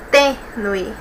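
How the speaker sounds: TÊ-nue, parted after the first syllable; split into syllables. Shown as a demonstration. Teacher separating Tênue for students, split into syllables. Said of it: "vamos separar aqui".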